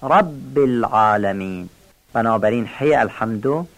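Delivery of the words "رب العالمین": رب with the b doubled and held, "rabb"; slow, lower رب العالمین, leaning on the doubled b of رب; clear doubled b. Shown as a demonstration. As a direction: press the shadda in رب. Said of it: "تشدید برم بیان کنیم".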